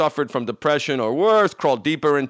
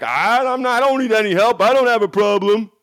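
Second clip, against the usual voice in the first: higher, louder mock denial from the partner; defensive partner voice; 7 semitones higher, 5 dB louder than usual. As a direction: play the husband brushing off any problem. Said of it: "If your partner's like".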